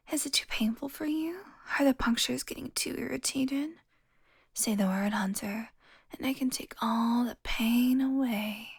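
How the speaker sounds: breathy, half-whispered menace; seductive taunt. Acted. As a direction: murmur it close, savouring the power over them. Vampire taunting a weakened hunter.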